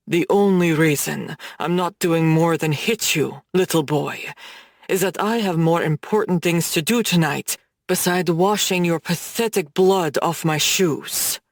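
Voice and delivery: low, measured threat; menacing mob boss. Acted. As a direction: lean in and threaten him, low and cold. Gavin menaces the humiliated Brooks.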